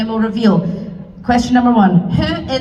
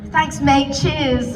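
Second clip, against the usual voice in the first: mock your own slip into an English accent; much slower than usual. Shown as a demonstration. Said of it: "It was more English".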